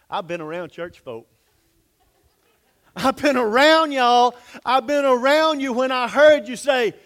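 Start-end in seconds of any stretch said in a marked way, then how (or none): 3.0-6.9 a preacher driving it home; emphatic preaching. Real, not acted. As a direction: lean into the congregation. Preacher pressing his point.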